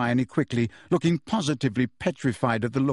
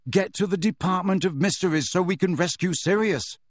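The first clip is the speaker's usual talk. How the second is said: loudly; 6 semitones higher than usual. Acted. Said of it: "Harry said loudly".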